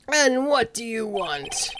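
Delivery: lightly voiced old man, slow; drawn-out, unhurried question; slow, lightly voiced old attorney asking; slow old lawyer. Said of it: "what should his voice be?".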